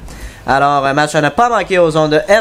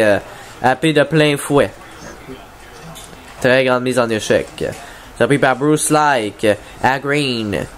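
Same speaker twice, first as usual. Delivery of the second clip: play-by-play. Acted. Live play-by-play of the game.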